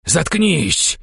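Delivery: high, furious yell; shouted. A narrator's reading. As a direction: cut someone off with a shout. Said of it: "закричал он". (яростно закричать)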